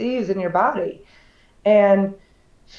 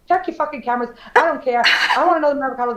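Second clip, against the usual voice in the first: higher, mock furious demand; angry demand; 4 semitones higher, much faster than usual. Demanding a replacement avocado roll from the restaurant, mock angry. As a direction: bark it at the restaurant, half-hammed. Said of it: "I said".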